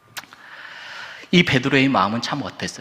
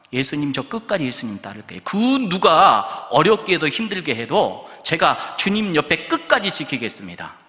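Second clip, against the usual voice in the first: lightly acted fervent pledge, emphatic and higher; earnest vow; 5 semitones higher, 3 dB louder than usual. Peter promising Jesus to follow to the end, fervent vow. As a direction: pledge loyalty with raised, insistent voice.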